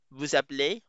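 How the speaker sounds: French "vous appelez", linked as one phrase; French pronunciation. Shown as a demonstration. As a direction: say "vous appelez" with a z liaison, voo-zap-lay. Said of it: "And you call is".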